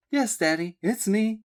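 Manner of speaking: high, cheerful reply; cheerfully. A narrator's reading. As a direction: answer her father brightly. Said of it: "she said cheerfully".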